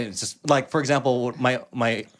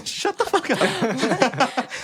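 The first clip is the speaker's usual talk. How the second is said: laughing; 13 semitones higher, much slower than usual. Real, not acted. Laughing at own bit.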